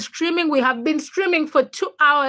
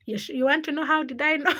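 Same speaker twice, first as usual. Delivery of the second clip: laughing retelling; 2 semitones higher, faster than usual. Retold or imitated. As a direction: try to quote him while starting to laugh. Boyfriend's quote breaks into laughter.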